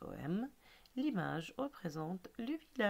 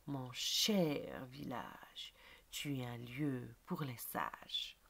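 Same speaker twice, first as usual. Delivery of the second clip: poem recitation. Acted. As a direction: recite line by line, drawing out key words.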